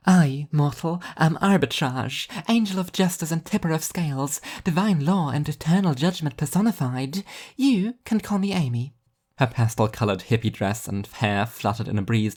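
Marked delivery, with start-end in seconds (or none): 0.1-8.9 high, lofty angelic proclamation; grand angel voice. Acted. Angel introducing herself to the dead, high and grandiose. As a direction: announce herself like a divine judge.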